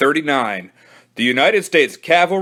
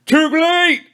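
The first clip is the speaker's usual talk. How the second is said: high, louder triumphant yell; gleeful victory shout, higher; 4 dB louder than usual. Acted. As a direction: crow it with glee. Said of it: "yelled Billy".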